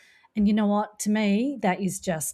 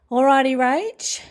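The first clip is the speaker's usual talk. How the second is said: upbeat intro; 6 semitones higher, 6 dB louder, slower than usual. Real, not acted. Host launches into book intro.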